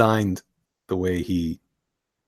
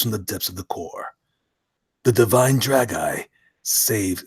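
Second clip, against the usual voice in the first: synopsis narration. Acted. Reads comic synopsis.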